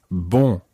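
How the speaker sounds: bon said fully through the nose; bon, French nasal vowel. Shown as a demonstration. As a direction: make bon very nasal, no n sound. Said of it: "the first syllable is very nasal".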